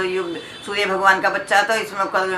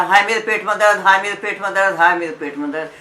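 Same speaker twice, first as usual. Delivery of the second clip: hammed-up wail of a bellyache, a bit louder; mock groaning complaint; 4 dB louder, faster than usual. Old leper groans at night, mock pained wail. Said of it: "उसने तो शोर मचा दिया".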